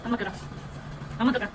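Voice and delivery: high, loud delighted coaxing; loud high praise for the little one. Real, not acted. Praising, calling baby.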